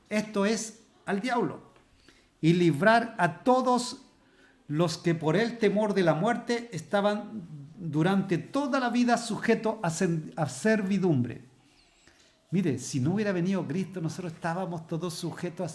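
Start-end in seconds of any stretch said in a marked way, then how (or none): 2.4-11.5 preaching scripture reading. Acted. Preacher reading Corinthians aloud to the church, slow proclaiming. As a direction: proclaim each phrase as a sermon climax.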